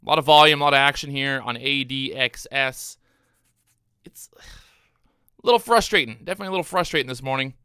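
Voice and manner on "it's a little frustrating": whispered under his breath, drawn out slowly; frustrated whisper. Real, not acted. Trader to viewers after missing dip buys, slow whisper. Frustrated aside while trading.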